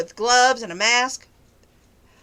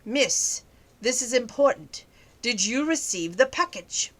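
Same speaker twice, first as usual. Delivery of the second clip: lightly voiced mysterious phone stranger; a hint of a strange man's voice; strange male caller. Scam caller pressing for an answer, lightly imitated strange voice. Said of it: "The strange voice".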